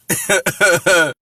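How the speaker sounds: short amused chuckle. Real, not acted. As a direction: chuckle briefly to yourself. Amused by a comment.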